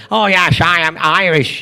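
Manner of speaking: Scottish slur with shushed s, lifted a little; mock film-star Scottish accent; Sean Connery. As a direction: claim to be Irish in unchanged Scottish. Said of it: "he's never changed his accent".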